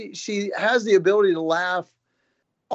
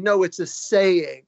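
mildly emphatic retort, drawn out; a slow, lightly insistent quoted correction; slower than usual. Retold or imitated. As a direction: insist on it slowly, imitating his wife. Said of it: "very emphatically, she said".

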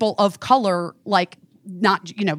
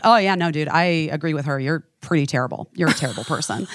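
lower, flat-toned retold deadpan; imitating a friend's dry put-down; 6 semitones lower, faster than usual. Friend agreeing with her against the man, lower deadpan. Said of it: "like, deadpan".

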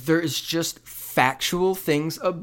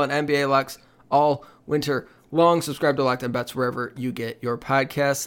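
upbeat promo voice; ad read. Acted. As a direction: pitch it like a radio ad. Reads a podcast promo.

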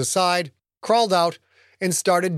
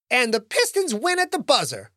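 playful sportscaster call, higher; mock announcer; 8 semitones higher than usual. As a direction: call it like a buzzer-beater.

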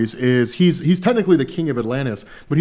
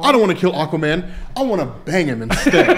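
mock lovestruck voice; 4 semitones higher than usual. Mocking Mara's thoughts.

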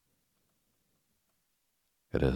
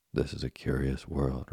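calm, even reply. Acted. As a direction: say it calmly and plainly. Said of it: "replied Geppetto calmly".

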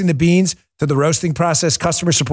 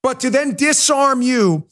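impassioned; 6 semitones higher than usual. Real, not acted. Impassioned rant rising.

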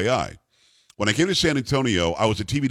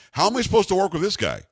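incredulous; 8 semitones higher than usual. Retold or imitated. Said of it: "the first thing I said on the air".

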